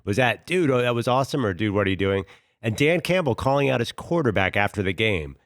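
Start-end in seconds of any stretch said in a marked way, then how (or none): 0.5-1.4 mildly impressed DUDE, lifted above the question that follows; approving dude. Shown as a demonstration. Asking about an overtime play, mildly approving dude. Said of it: "help me out with the intonation". 1.5-2.2 mildly reproachful DUDE, kept down in pitch; disapproving dude. Shown as a demonstration. Questioning an overtime play, mildly disapproving dude. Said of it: "So it's a negative".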